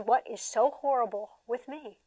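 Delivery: soft, slow lament; abused child wondering what's wrong with him; sad child. Retold or imitated. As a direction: ask it like a hurt kid. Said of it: "the abused kid says".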